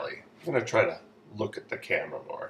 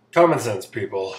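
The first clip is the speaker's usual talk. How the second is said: loud exasperated; 8 dB louder than usual. Acted. Exasperated punchline.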